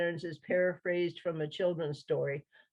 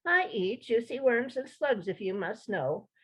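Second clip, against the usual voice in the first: higher, haughty sniff; haughty bird; 5 semitones higher than usual. Acted. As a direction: look down your beak at the frog. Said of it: "with a haughty tone".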